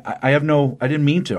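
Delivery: acted flustered stammer; halting, imitated stutter. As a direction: trip over the first words, retelling a flustered apology. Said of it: "stuttering all over the place".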